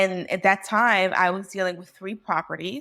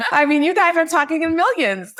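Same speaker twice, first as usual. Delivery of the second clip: high, loud laugh through the words; laughing at a room talking millions; 9 semitones higher, 6 dB louder than usual. Real, not acted. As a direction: giggle it out, amazed. Laughing at her own overwhelm.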